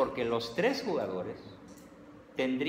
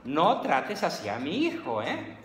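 scolding dad; 6 semitones higher, 4 dB louder, slower than usual. Retold or imitated. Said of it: "el papá le dice a la mamá".

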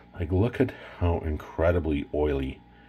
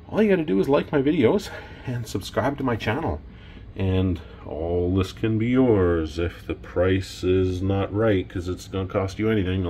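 high, bright radio host voice; 3 semitones higher than usual. Pretend. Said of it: "That sound like a radio host?".

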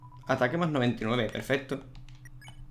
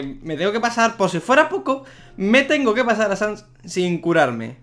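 higher, louder, slowing down in disbelief; exasperated complaint; 7 semitones higher, 5 dB louder than usual. Real, not acted. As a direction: drag out the complaint, fed up. Frustrated at having no healing items. (quejándose exasperado, más agudo y fuerte)

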